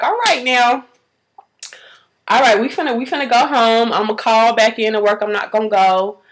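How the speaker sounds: pulled-together mother taking charge; mildly subdued, settling things after a cry; composed. Retold or imitated. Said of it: "I gather myself together".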